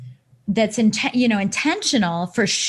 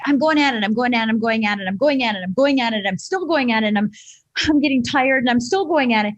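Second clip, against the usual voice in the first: frantic busy; 2 semitones higher than usual. Retold or imitated. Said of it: "like a little gerbil".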